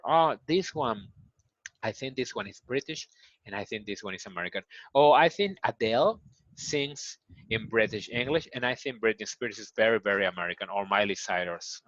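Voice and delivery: lightly voiced learner thinking aloud; a hint of a student comparing accents; mock learner musing. Teacher voicing a student telling accents apart, lightly musing. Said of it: "Or you can say".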